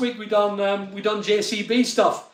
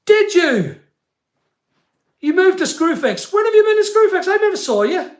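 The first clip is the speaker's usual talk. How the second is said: surprised; 9 semitones higher, 4 dB louder than usual. Real, not acted. Reading viewer comments on live stream.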